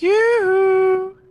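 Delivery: high, loud drawn-out yoo-hoo call; sensual yoo-hoo. Pretend. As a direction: holler it like calling across a forest. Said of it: "give me their sensual yoo-hoo".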